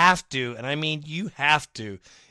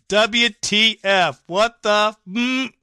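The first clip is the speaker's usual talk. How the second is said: loud, higher, flustered outburst; loud frantic bewilderment, much higher; exasperated fan; 5 semitones higher, 7 dB louder than usual. Retold or imitated. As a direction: read it like a panicked fan yelling. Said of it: "here's Daniel and Chino".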